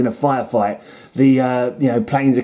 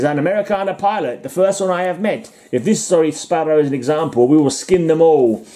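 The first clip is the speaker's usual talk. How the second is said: put-on hammy German-accented villain, raised pitch; mock German accent, higher voice; German pilot's accent; 3 semitones higher than usual. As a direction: play the enemy ace in a mock German accent. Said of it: "and he says".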